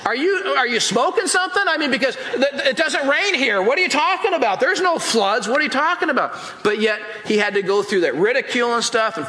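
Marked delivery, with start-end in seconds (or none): 0.0-6.4 higher, incredulous, laughing mockery; scoffing neighbors. Neighbors ridicule Noah building in the desert, scoffing. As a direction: laugh him off as crazy. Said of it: "And they're like".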